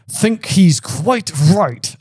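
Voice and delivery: slow words pushed through clenched teeth. A narrator's reading. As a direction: grit your teeth and force it out slowly. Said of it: "said Sirius through clenched teeth".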